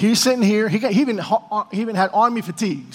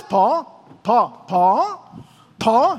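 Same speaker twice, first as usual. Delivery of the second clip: urgent calling; 2 semitones higher, much slower than usual. Retold or imitated. Calling urgently to praying friend.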